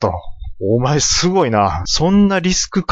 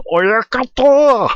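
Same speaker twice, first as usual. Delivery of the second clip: high, loud shout of Oyakata; loud call; 10 semitones higher, 4 dB louder than usual. Acted. Apprentice wrestler shouting for his stablemaster, loud high call. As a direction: call out eagerly for the boss.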